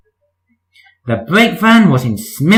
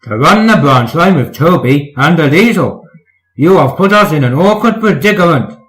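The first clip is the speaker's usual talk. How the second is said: cross; 2 semitones higher, 4 dB louder than usual. Acted. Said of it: "said the Fat Controller crossly".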